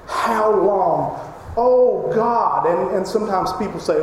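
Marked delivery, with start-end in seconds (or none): 0.1-2.7 voiced lament. Shown as a demonstration. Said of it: "So you can hear it".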